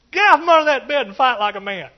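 shouted mock command; loud mock yell at a husband under the bed; retold scream. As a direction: yell it like an angry wife. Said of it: "she was just screaming at me".

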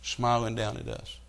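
slow, soft, dreamy quoting of the actress; a hint of a gushing mourner, slowed down; lightly mocking a tearful celebrity tribute; mock sentimental tribute. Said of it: "And she said".

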